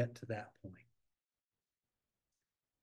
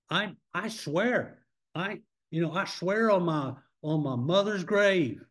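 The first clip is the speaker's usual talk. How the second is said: put-on Southern accent. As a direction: swear it in a mock Southern accent. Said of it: "doing that in a Southern accent".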